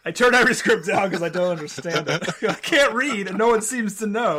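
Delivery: half-joking impression of an illiterate movie star; mock Scottish actor. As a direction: blurt it as a hammy confession. Riffing as an illiterate Connery.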